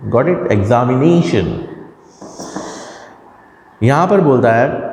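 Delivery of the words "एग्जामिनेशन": एग्जामिनेशन with a long, raised ने; pitch rise on NE. Shown as a demonstration. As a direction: stretch and lift ने, then drop on शन in एग्जामिनेशन. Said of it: "high हो जाती है".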